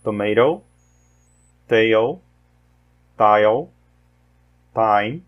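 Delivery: teacher modelling the T in "tomato", "table", "take"; American English T words. Shown as a demonstration. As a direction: model each word one by one for learners. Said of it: "Mais uma vez".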